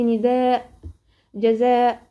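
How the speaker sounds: نداء and جزاء ending on a held "aa" after the hamza; compensatory lengthening. Shown as a demonstration. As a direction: stop on نداء، جزاء with a long vowel, no "n". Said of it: "بتقفي عليها مد عوض عن التنوين".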